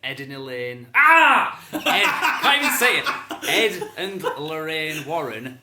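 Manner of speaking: talking through a mouthful of water; mouth full of water. Real, not acted. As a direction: gargle the words through water. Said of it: "it's very difficult to talk with water in your mouth".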